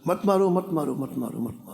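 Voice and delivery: imitated begging that drops away; pleading pig. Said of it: "सुअर मनुष्य की भाषा में बोला".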